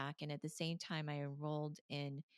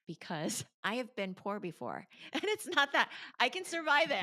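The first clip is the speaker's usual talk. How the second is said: laughing it off; 8 semitones higher, 8 dB louder than usual. Retold or imitated. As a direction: laugh through the words, voice jumping higher and louder. Laughing at her own bold plan.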